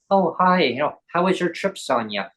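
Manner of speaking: put-on English accent. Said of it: "like, an English accent".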